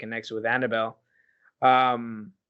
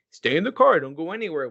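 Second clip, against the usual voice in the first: mock movie parent; 3 semitones higher, 4 dB louder than usual. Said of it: "always in every fucking single scary movie".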